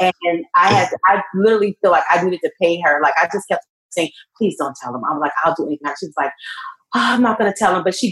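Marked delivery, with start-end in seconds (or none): 4.4-5.9 mock begging, quieter and faster. Recounting begging someone to keep a secret, retelling own begging. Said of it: "I begged her".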